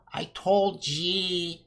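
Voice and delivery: slow, soft, mocking old woman. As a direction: croak it like a frail old lady. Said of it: "she says in her old ... voice".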